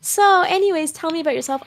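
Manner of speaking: high, sing-song small-talk voice; fake-friendly chit-chat; mock polite small talk.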